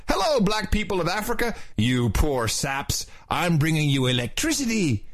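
a hint of a smug president selling electricity; mocking Obama to Africans, mostly his own voice. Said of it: "This is totally what he's doing".

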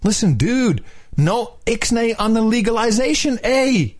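high-pitched pleading dude voice; mock presidential begging, high and urgent; Barry, imitated. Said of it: "He's like".

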